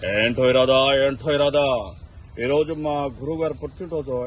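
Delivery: lightly voiced romantic film hero; Sobhan Babu voice. Mimic on stage gently imitating the romantic hero. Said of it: "Shobhan బాబు గారి voice".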